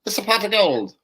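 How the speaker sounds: a hint of an Irish accent; light Irish brogue; leprechaun. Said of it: "leprechauns, finding the gold".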